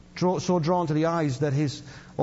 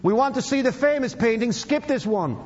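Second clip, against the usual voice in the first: shout; 5 semitones higher than usual. Acted. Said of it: "a voice in the back of the room shouted".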